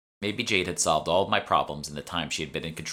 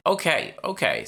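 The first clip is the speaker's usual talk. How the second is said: first okay high and loud, second dropping; hasty giving in; 9 semitones higher, 5 dB louder than usual. Acted. Shopwoman caving to the threat, flustered old voice. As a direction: cave in quickly, flustered.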